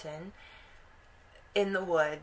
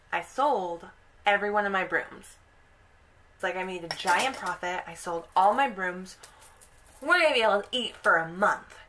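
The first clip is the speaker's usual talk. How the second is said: proud boasting; 5 dB louder than usual. Retold or imitated. Husband boasting of his sale.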